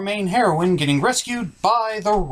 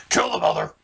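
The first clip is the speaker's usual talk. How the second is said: whispered order; 5 semitones higher, faster than usual. Acted. Villain gives the order.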